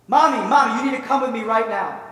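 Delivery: put-on loud, high, insistent little girl; urgent child's plea. Little girl begging her crying mother to come, urgent and excited. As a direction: burst out urgently, tugging mom along.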